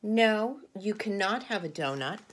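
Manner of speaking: panda firmly refusing; firm refusal. Acted. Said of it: "And Mister Panda says".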